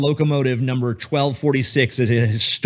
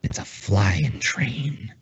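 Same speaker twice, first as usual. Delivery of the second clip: deadpan; 6 dB quieter, much slower than usual. Acted. Deadpan joke, slow soft.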